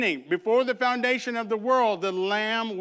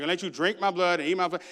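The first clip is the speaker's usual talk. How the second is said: quick, offhand retelling; a hint of a Dracula speech, rattled off fast; faster than usual. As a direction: toss the line off fast. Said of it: "I call it the Dracula speech".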